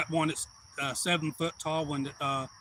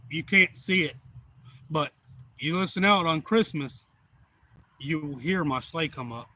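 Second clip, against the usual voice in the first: Santa voice. Retold or imitated. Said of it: "the character of Santa".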